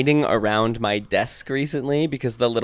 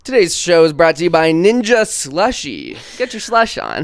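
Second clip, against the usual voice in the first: ad read; 4 semitones higher, 4 dB louder than usual. Pretend. Mock sponsor ad read.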